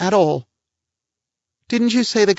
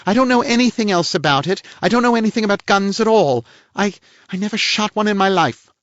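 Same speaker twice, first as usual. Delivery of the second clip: louder, pitched-up anger of the lady; the lady angrily denying it, high and loud; angry; 13 semitones higher, 4 dB louder than usual. A narrator's reading. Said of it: "she said angrily".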